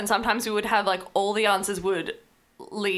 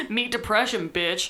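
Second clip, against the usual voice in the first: laughing while reading; 3 semitones higher, slower than usual. Real, not acted. Reads the quiz result, laughing.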